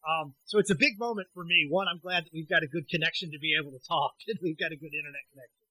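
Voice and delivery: tinny voice on a bad phone line; tin can phone. Real, not acted. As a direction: sound like a poor cell connection. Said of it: "I'm gonna sound a little bit like I'm talking through a tin can or on a bad cell phone reception".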